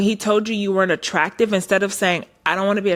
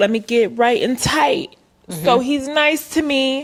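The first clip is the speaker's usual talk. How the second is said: slow, derisive, mocking drawl; 4 semitones higher than usual. Retelling someone's answer to an insult: mocking imitation of someone. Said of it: "Your response was".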